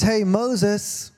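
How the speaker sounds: squeaky high God saying hey Moses; mock high call to Moses; a playful too-high God voice. Shown as a demonstration. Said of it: "God doesn't sound like that".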